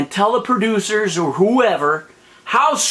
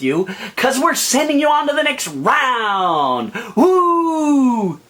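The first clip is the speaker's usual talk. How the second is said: higher, whiny mock celebration ending in a squealed woo; mock fake cheer; 5 semitones higher, slower than usual. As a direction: ham up a smug judge's fake joy. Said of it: "I saw you do the same freaking thing".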